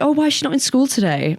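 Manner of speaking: high puzzled teacher; lightly voiced confused teacher. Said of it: "And she was like".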